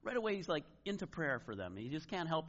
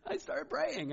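high, loud, giggly mock confession; imitated laughing confession; 11 semitones higher, 6 dB louder, slower than usual. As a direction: imitate a caller helplessly amused at herself. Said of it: "she just burst out laughing on our voice message".

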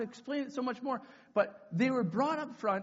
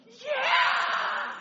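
very high, loud long yell; crowd cheer; 10 dB louder than usual. Retold or imitated. Whole camp answering the leader, screamed cheer. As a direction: scream back like a frenzied mob. Imitates crowd roaring back.

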